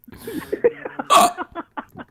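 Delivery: high burst of laughter; helpless laugh. Real, not acted. Laughs at his own hiccups.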